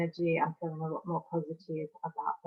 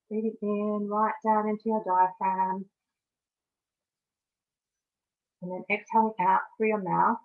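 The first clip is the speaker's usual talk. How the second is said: measured meditation guide with long pauses; guided meditation; 2 semitones higher than usual. Acted. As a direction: guide listeners through each breath, leaving space between phrases.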